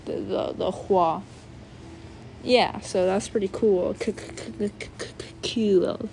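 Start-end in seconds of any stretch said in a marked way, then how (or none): 4.0-5.8 quiet repeated k clicks; stuttered k. Shown as a demonstration. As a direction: tap out the k over and over softly. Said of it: "Just to make sure".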